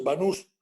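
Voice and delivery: "Banús" said ba-NÚS, final syllable stressed. Shown as a demonstration. Professor to class insisting on his surname: "Banús" stressed on the ú. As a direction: land firmly on the ú in "Banús". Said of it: "con acento en la S, en la U".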